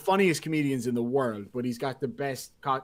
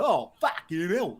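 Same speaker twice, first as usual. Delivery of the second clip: mock old-school Cockney exclamation, pitched up; 3 semitones higher than usual. Describing a Cockney acquaintance, in exaggerated old-school Cockney. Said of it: "one of the old school Cockneys".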